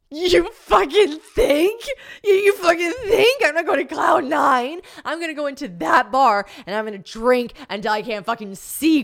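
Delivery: high, loud, slow furious shout; furious crying yell. Retold or imitated. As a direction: scream it through tears. Retold furious crying outburst.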